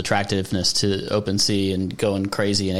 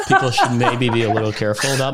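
laughing; 3 semitones higher, 4 dB louder, faster than usual. Real, not acted. Laughing through a warning.

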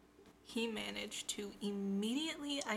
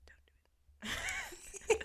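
whisper; 14 semitones higher, much slower than usual. Real, not acted. Stifling a burp, whispering.

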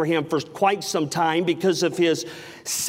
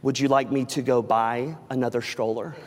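sweet wife; 8 semitones lower, 4 dB quieter than usual. Retold or imitated. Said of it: "with this smile".

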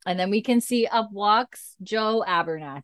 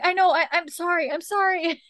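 meek apology; 11 semitones higher than usual. Retold or imitated. Nurse apologizing after being snapped at.

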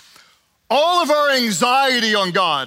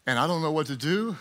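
softer, hushed admission to God; quiet prayer; 6 semitones lower, 6 dB quieter than usual. Acted. Pastor voicing a calm believer praying, softly. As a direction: say it softly, surrendering.

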